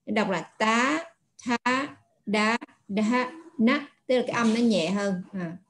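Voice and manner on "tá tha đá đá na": tá tha đá na said with the tongue between the teeth; slow, light dental sounds; dental consonants. Shown as a demonstration. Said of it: "chúng ta đọc âm răng tới lưỡi". (đọc âm răng, lưỡi đặt giữa hàm răng)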